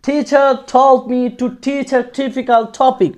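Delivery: slow, careful whole line; slow drill. Shown as a demonstration. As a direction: say the full line slowly. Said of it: "এরকমভাবে উচ্চারণ করার চেষ্টা করব". (ধীরে পুরো লাইন)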